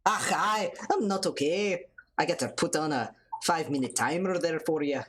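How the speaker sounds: Irish brogue drifting towards Scottish; amateur mock-Irish voice; shaky Irish accent. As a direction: attempt an Irish accent, not very well. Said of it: "I don't even know if this is Irish or if Scottish".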